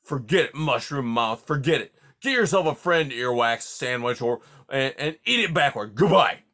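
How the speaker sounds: put-on hurt old porcupine ranting at his friend; offended rant. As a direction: rant on, wounded and sarcastic. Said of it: "exploded Aerith".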